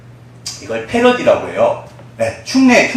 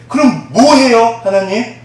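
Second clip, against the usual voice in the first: puzzled question; 8 semitones higher, 5 dB louder, slower than usual. Retold or imitated. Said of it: "뻥쳐가 가만히 있는데".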